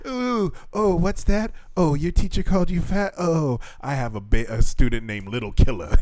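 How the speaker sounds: high, mock-amazed gasp at a trifle; mock unimpressed teacher. A teacher abroad mocking a small complaint, high mock surprise. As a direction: act shocked by a tiny complaint, then shrug. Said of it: "They're like".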